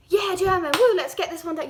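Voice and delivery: hammed-up eager woo; mock enthusiasm. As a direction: fake a keen student's hype for German. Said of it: "you know, like, no".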